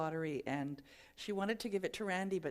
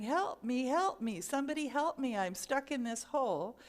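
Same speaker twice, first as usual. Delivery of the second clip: raised, louder cries for help; mock yelling for help; 5 semitones higher, 4 dB louder than usual. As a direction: keep calling out to anyone passing. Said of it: "And keeps yelling".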